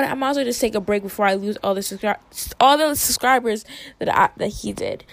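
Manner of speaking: tripping over words, flustered; stuttering. Real, not acted. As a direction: stumble and restart mid-sentence. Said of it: "I'm stuttering because I'm getting mad".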